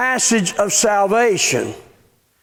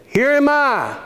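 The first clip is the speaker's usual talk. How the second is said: much higher, eager "Here am I"; eager exclamation; 7 semitones higher than usual. Shown as a demonstration. Preacher showing Isaiah's eager answer, high and excited. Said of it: "He answered in this tone".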